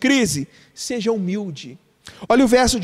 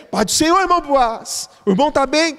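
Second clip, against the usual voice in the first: higher, louder church greeting; cheery reply; 3 semitones higher, 4 dB louder than usual. Retold or imitated. Congregation greeting Boaz, cheerfully louder. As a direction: greet him like eager church members. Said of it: "o pessoal responderia".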